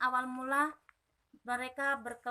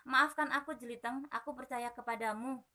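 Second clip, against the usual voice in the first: remorseful. Acted. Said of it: "kata Jerabang penuh penyesalan".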